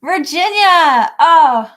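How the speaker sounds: loud, high, drawn-out name and oh; delighted greeting. Real, not acted. Host spotting a viewer's question, delighted. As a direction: greet them with a bright, loud burst.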